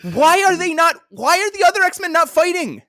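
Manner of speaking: loud, high-pitched exasperated yell; mock outraged shout. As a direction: shout in comic disbelief at the absurd plot. Host's mock outrage at comic's plot.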